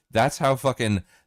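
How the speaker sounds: ordinary talk, nothing marked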